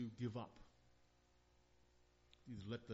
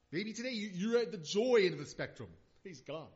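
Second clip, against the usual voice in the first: high, loud, exultant preaching; joyful preaching; 8 semitones higher, 14 dB louder than usual. Acted. Preacher celebrating the joyful ones in the congregation, exultant. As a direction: lift them into joy. Preaching joy at full force.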